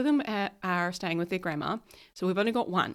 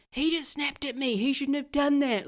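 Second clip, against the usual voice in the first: higher, indignant thought replayed; indignant inner voice; 7 semitones higher than usual. Wife replaying her hurt reaction to partner, indignant. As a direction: replay the moment you felt wronged. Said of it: "that was the moment when I snapped".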